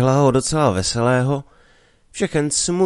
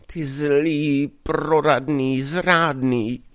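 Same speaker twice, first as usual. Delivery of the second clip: tearful; 5 semitones higher, much slower than usual. Acted. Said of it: "rozplakala se Mařenka".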